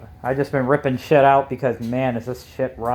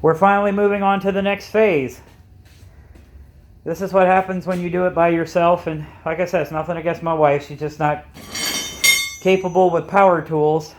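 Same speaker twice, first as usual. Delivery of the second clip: muffled; 3 semitones higher than usual. Real, not acted. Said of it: "if I sound muffled in that, that's because I'm wearing a mask".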